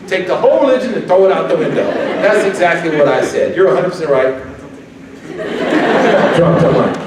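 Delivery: sarcastic agreement. Acted. Mocking an insecure critic.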